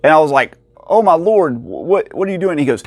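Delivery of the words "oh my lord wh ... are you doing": high-pitched, stunned oh my lord; as if a treasure just appeared; stunned exclamation. Retold or imitated. Collector seeing rare games pulled from the cabinet, high and stunned.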